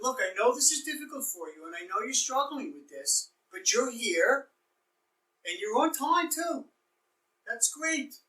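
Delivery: encouraging, upbeat counselor voice; affirming counselor. Shown as a demonstration. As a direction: praise them for showing up. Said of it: "you want to affirm to them that".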